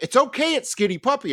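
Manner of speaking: high, lilting mock reassurance; high sing-song it's okay; mock soothing girl. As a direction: soothe him like it's nothing.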